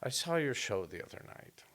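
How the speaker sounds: a hint of a sweet little old lady; nice old British lady. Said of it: "but it sounded so nice".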